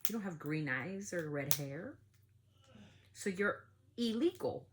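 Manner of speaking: slow, drawn-out mocking of a bigot; slow sneering imitation of the woman; mock condescending quote. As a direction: spell it out slowly like a sneering bigot. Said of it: "she has the right to say".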